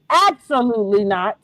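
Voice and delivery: measured, low-pitched firm refusal; forceful refusal. Retold or imitated. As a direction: quote his firm no without raising your voice. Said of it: "Just like that".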